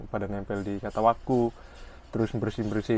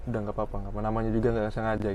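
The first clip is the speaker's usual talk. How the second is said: reassuring; much faster than usual. Retold or imitated. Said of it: "Biasanya, biasanya gini".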